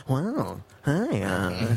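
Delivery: imitated club booker, hesitant greeting; Tommy. Comedy club booker greeting a newcomer, impersonated awkwardly. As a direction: do the booker's halting hello. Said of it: "No, that's a great Tommy".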